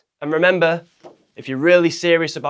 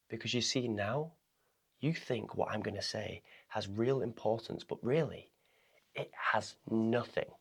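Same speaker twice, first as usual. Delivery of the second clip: slow and much softer, weighty pauses; slow, soft highlight; 4 semitones lower, 13 dB quieter than usual. Shown as a demonstration. Coach demoing slow speech to viewers, soft and drawn out. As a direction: make it sound important by slowing right down. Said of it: "used that as a verbal highlighter".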